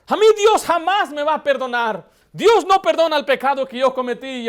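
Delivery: retold sobbing lament, loud and high; tearful outcry. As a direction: cry the words out through tears. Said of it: "Y empezó a derramar lágrimas".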